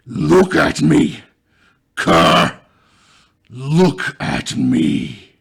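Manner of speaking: booming, very loud growl shaped into words. Narrating a passage, voicing a voice heard from a room ahead, growling. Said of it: "shaped into little more than a growl".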